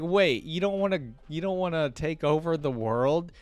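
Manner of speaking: high, loud mock disbelief, slowing at the end; incredulous Vex quote. Reader voicing Vex, baffled by Viego's love, high mock disbelief. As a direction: play Vex baffled that it's all for love. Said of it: "Vex was like".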